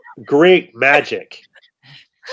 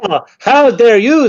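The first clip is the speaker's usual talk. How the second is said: mock outrage; 7 semitones higher, 4 dB louder than usual. Escalating how dare you duel.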